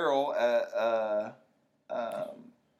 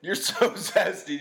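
laughing; 5 semitones higher, 3 dB louder, slower than usual. Real, not acted.

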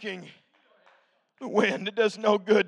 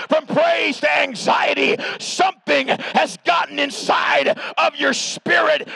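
rising preacher's call to the congregation; full-force preaching. Acted. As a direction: preach it to the back row.

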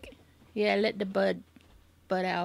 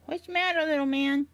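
pet talk; 5 semitones higher than usual. Real, not acted. Talking sweetly to the dog.

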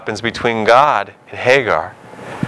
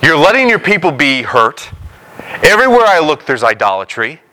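pleading, climbing higher and slower; Habakkuk's complaint; 5 semitones higher than usual. Retold or imitated. Habakkuk pleading with God to act, voice climbing high. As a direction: cry out to God in exasperated complaint, rising higher line by line. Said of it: "So Habakkuk goes".

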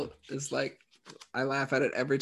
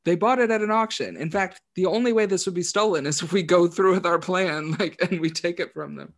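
exasperated correction, higher and louder; mock exasperated quote, pitched up; Dennis; 5 semitones higher, 4 dB louder than usual. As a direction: set them straight, raised voice. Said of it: "And Dennis is like".

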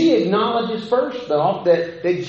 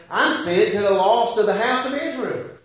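curt dismissal; 4 semitones higher than usual. Shown as a demonstration. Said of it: "I read the inflection where I would read that Jesus would say".

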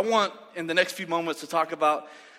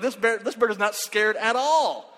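mock amazement; 5 semitones higher than usual. Amazed at fearless bird.

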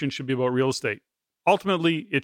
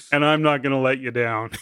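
giggling as you deliver his line; laughing through it. Retold or imitated. Host retelling the coach's joke to his guest, laughing. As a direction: quote the punchline while cracking up. Punchline quoted while laughing.

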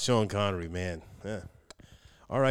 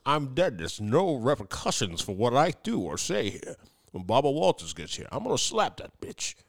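Sean Connery voice. Acted. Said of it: "why do you sound like a leprechaun".

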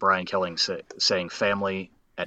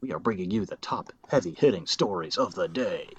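mock news anchor. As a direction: tease the story like a cable host. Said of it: "Fox News".

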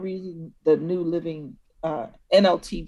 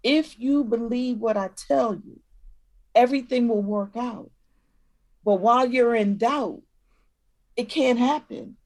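put-on parent to child; 2 semitones higher than usual. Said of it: "You're talking to your child".

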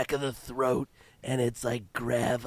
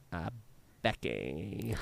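vocal fry; 3 semitones lower, 8 dB quieter, slower than usual. Acted. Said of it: "the pumpkin spice character's name is".

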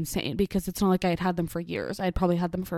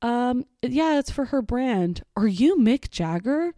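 starstruck; 5 semitones higher, 4 dB louder, slower than usual. Retold or imitated. Retold starstruck question to celebrity.

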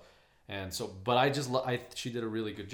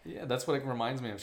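ordinary talk, nothing marked

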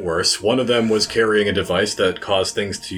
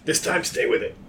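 whisper; 10 semitones higher, 4 dB quieter than usual. Acted. Whispered aside.

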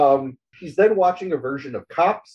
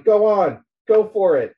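higher, louder cheering call; mock crowd yell; 7 semitones higher, 3 dB louder than usual. Crowd by the river yelling at the runner, cheering. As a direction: egg them on like a crowd.

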